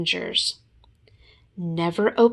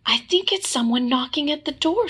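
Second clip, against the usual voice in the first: Piglet voice; 8 semitones higher, faster than usual. Acted.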